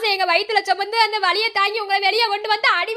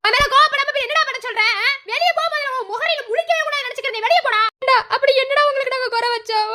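raised, higher-pitched scolding; angry scolding; 3 semitones higher than usual. Acted. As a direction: drive the son away in anger. Mother berates son, orders him out. (கோபமான திட்டுதல்)

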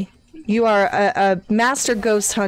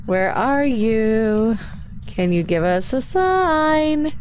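slow spooky calling; much slower than usual. Acted. Calling out to the ghost.

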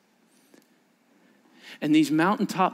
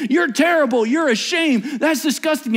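lightly voiced mocking accuser, higher; accusing voices; 8 semitones higher, 3 dB louder than usual. Inner voices shaming the listener, mild mocking tone. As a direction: sneer the insults a little. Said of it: "the voices that say".

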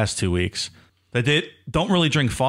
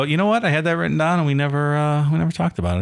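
laughing retold quote; 6 semitones higher, faster than usual. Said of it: "and I go".

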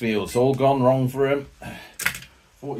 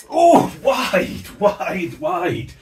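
loud high cry fading to a groan; excited near miss; 7 semitones higher, 6 dB louder, much slower than usual. Acted. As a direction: shout the miss, then let it sag.

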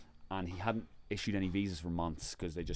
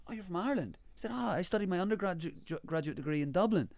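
higher-pitched mock enthusiasm; imitated delighted official; 8 semitones higher than usual. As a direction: act out an official pleased at the connection. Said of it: "And he's like".

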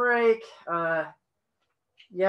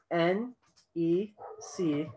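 spelling it out slowly; dictating; much slower than usual. Shown as a demonstration. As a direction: spell it letter by letter. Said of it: "Would you like me to spell that for you?".

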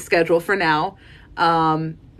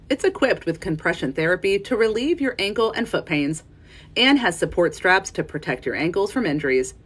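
relaxed ad read, friendly and clear; casual voiceover. Shown as a demonstration. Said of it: "like, a casual voiceover".

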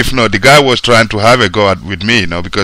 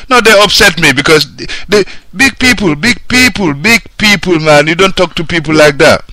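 heated and pitched higher; anger building, voice climbing up; getting angry; 6 semitones higher than usual. Real, not acted. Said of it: "I'm getting angry".

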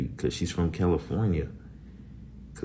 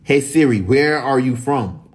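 calling Siri; 6 semitones higher, 7 dB louder than usual. Real, not acted.

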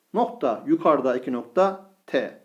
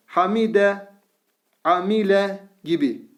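in one go; 3 semitones higher than usual. Shown as a demonstration. Teacher reads the word in one smooth go. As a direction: read Hamide as a single smooth word. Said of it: "bir çırpıda okuyalım".

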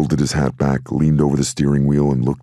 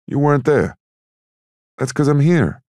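high character voice; 13 semitones higher, 4 dB louder than usual. Acted. Sonny and Cork bicker.

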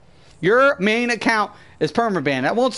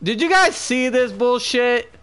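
higher, incredulous complaint; real exasperation; 6 semitones higher than usual. Real, not acted. Gamer asks viewers if they saw the glitch, exasperated. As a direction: call out in disbelief, pitch climbing.

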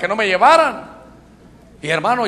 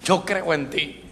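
soft, slow retold prayer; retold private prayer; 6 dB quieter, slower than usual. Preacher retelling his confession to the Lord, hushed. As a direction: say it softly and slowly to God. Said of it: "decía: Señor".

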